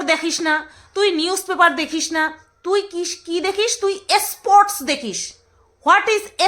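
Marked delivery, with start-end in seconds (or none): 4.2-4.8 স্পোর্টস said with an extra leading "e", "es-sports"; mock mispronunciation. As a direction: mockingly put "es" before স্পোর্টস. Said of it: "তুই নিজে উচ্চারণ ঠিক করে করস". (স্পোর্টস-এর আগে "এ" জুড়ে ব্যঙ্গ করে "এসপোর্টস")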